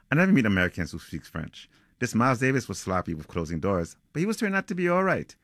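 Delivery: author reading aloud from a novel; measured, lightly dramatic storytelling; story narration. Acted. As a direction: read it like a suspense tale, phrase by phrase. Reads a passage from the novel.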